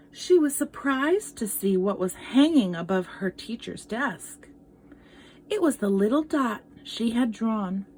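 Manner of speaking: gentle read-aloud storytelling; story narration. Acted. Teacher reading a picture book to children, storytelling voice. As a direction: tell it like a picture book to kids.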